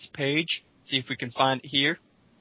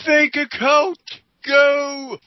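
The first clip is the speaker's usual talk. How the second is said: much higher, louder hammed-up shout; rally the troops, overdone; playful yelled charge; mock battle cry; 12 semitones higher, 8 dB louder, much slower than usual. Mock-rallying cry against sock account.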